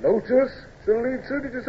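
high, incredulous echo of an order; stunned disbelief. Acted. Officer echoing his captain's order, stunned and incredulous. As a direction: repeats the order as if he misheard. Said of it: "Your face".

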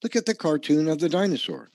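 a hint of a small child pointing things out; three-year-old child. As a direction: pop up high on "Yeah" like an eager toddler. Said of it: "Even a three-year-old would say".

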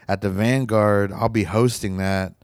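laughing through a worn-out voice; hoarse, tired voice; voice giving out. Real, not acted. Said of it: "Sorry, my voice is giving out".

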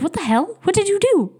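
high, incredulous mock disbelief; a teenager gasping at her future self; shocked teen self. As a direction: play her younger self, aghast and squeaky high. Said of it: "She'd be like".

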